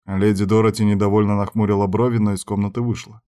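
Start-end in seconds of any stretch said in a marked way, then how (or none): none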